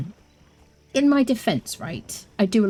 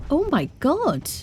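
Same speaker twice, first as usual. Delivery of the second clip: drawn-out high oh my god; 9 semitones higher, slower than usual. Real, not acted. Startled in game.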